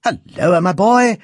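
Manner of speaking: high, loud welcoming call; glad cry. A narrator's reading. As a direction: cry out a delighted greeting to the boy. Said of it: "cried the instrument maker".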